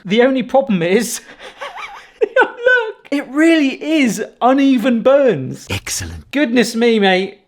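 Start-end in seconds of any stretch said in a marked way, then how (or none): 2.2-5.7 high word through laughter; laughing. Real, not acted. Laughing at the burnt toast. 5.7-6.3 very low, soft aside; put-on villain voice. Puts on villain voice after burns pun.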